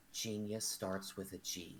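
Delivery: very hushed, low, earnest, gentle and sincere. Bending down with a hand on his shoulder, in the most sincere, gentle tone. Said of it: "in the most sincere, gentle tone".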